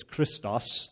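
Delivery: "Christos" in an attempted Greek pronunciation. Shown as a demonstration. Preacher shows the congregation the Greek word, Greek pronunciation of "Christos". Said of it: "There's my Greek pronunciation".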